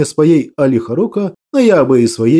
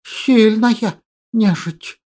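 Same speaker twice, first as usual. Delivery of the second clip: slow lisping hiss, softer; hissing creature voice; 4 semitones higher, 4 dB quieter, much slower than usual. Acted. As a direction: drag it out in a hiss. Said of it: "Перевёл я его шипение".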